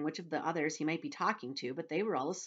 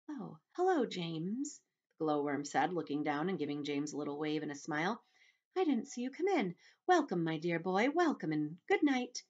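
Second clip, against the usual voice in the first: friendly glowworm. Acted. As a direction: welcome the boy kindly. Glowworm greets James sweetly.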